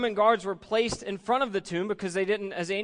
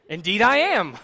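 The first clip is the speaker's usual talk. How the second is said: louder, chuckling matter-of-fact reply; amused agreement; 8 dB louder than usual. Retold or imitated. Pastor teased about his tie, answering loud and amused. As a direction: own it with a grin. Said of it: "Vern, you're wearing a tie".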